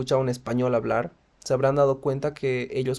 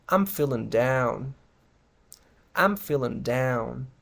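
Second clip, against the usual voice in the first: downbeat; much slower than usual. Shown as a demonstration. Models downbeat answers to how are you.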